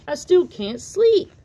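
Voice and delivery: loud, slow complaint; a frog who can't sleep; whiny tired dad. Acted. Dad moans to Tad that he cannot sleep, loud and slow.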